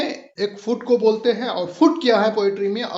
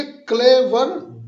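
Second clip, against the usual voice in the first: क्लेवर with क्ले held longer and वर quicker; stress on first syllable; 3 semitones higher, 3 dB louder, much slower than usual. Shown as a demonstration. Teacher pointing out two syllables, first-syllable stress on क्लेवर. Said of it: "पहले को हम खींच के पढ़ रहे हैं".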